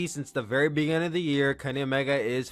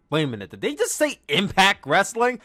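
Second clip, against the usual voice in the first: retold shock; 5 semitones higher, 3 dB louder than usual. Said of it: "I remember being shocked".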